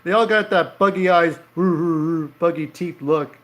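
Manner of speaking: laughing as you point it out. Real, not acted. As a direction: talk while cracking up. Cracking up at drawn faces.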